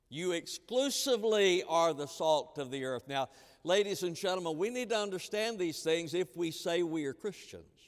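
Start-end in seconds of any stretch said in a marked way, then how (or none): 0.1-3.1 "exclusively" punched, rest falling away; stress on EXCLUSIVELY. Retold or imitated. Preacher explaining Jesus' words, emphatic "exclusively". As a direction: lean hard on "exclusively". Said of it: "because this is emphatic".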